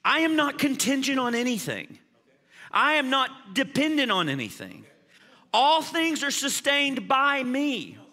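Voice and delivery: a preacher voicing God's sovereign claim; God speaking. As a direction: declare it as God himself. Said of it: "here's what God is saying".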